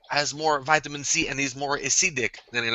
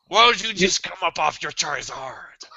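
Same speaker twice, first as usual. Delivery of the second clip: whispered. Retold or imitated. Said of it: "I was like".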